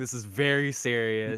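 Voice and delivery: straight delivery cracking into laughter. Apologizing for laughing while calling the situation serious: laughing while talking. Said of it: "I'm sorry I'm laughing".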